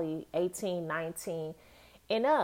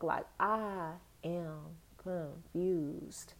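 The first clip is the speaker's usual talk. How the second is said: deadpan; 7 dB quieter, much slower than usual. Real, not acted. Deadpan after rant.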